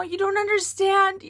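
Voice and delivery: mock self-pitying protest; super whiny. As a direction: whine like you're being annoying on purpose. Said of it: "I start to get super whiny".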